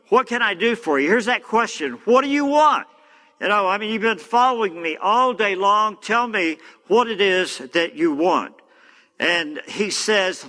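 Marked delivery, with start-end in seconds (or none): 0.1-1.1 higher-pitched acted questioning; insistent question. Acting Elijah questioning his follower. 2.0-8.5 high-pitched, pressing mock exasperation; acted impatience, pitch jumping up at the start; exasperated questioning. Acting exasperated Elijah pressing Elisha.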